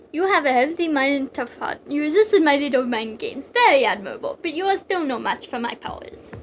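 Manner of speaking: lightly voiced Russian villain; measured villain line with faint Russian accent; attempted Russian accent. Mantis praising then warning Snake, light Russian accent. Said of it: "I can't do a Russian accent".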